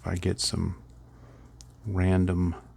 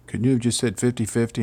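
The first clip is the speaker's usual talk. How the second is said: impatient guy; 4 semitones higher, 4 dB louder, faster than usual. Retold or imitated. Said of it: "a guy told me".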